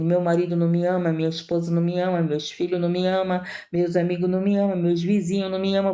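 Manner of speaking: rattling off the list of grievances fast; fast, half-mocking whine of who doesn't love me; rapid mock complaint. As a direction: reel off every complaint in a rush, mocking. Mocks a string of complaints.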